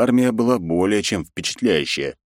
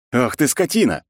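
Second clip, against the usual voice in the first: growled curse; 6 semitones higher than usual. A narrator's reading. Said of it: "прорычал я".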